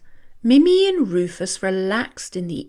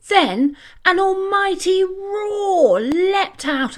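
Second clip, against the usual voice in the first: excited roar; 9 semitones higher than usual. A narrator's reading. Crowd roar narrated.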